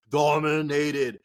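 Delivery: stretched slowly, word savoured; drawn-out emphasis. Pretend. Fantasy host repeating a stat for listeners, slowly stretched. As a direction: drag the word out to hammer it.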